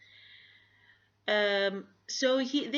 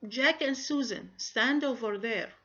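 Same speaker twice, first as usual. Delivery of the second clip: example order; 4 semitones higher, 4 dB louder than usual. Shown as a demonstration. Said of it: "I am ordering here two people".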